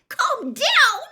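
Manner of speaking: high, loud incredulous echo; feverish echo. A narrator's reading. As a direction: throw the words back in disbelief. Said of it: "she said feverishly".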